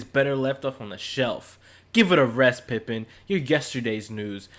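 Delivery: lightly put-on voice of an indignant reviewer; Dave Curtis. Reading a one-star book review aloud, lightly acted scolding. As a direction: read it out as a mildly hammed-up scolding. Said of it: "I'm gonna use my Dave Curtis voice".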